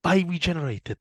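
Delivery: exaggerated high Welsh accent; hammed-up Welsh impression. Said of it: "horrible Welsh accent".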